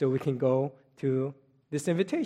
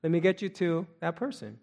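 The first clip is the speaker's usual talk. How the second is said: cheerful phone answer. Retold or imitated. Receiver of a courteous call answers cheerfully. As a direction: sound glad to hear the caller. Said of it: "the person who receives the phone call will say".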